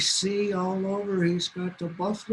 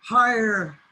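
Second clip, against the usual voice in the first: a touch higher, coaxing and slow; teasing bluebirds; 3 semitones higher, 4 dB louder, slower than usual. Acted. Bluebirds goad the blind coyote, slow and coaxing. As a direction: egg him on slyly. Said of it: "And they said".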